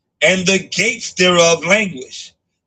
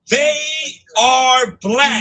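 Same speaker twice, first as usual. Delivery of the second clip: emphatic shout; 4 semitones higher, slower than usual. Real, not acted. Repeating the verse emphatically.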